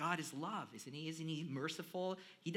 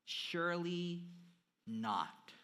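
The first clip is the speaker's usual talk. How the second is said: mock protest; 2 semitones higher, 4 dB louder, much slower than usual. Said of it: "The listeners react".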